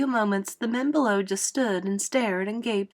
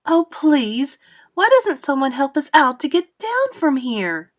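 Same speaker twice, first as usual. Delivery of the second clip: higher, louder plaintive call; 6 semitones higher, 6 dB louder than usual. A narrator's reading. Miss Spider begs the crowd below for help, calling out. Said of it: "Miss Spider called out".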